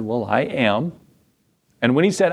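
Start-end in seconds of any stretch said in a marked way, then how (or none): 0.0-0.9 a gentle, soft-spoken answer; kind and quiet. Retold or imitated. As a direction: say it calmly, almost tender. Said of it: "very kindly and quietly said".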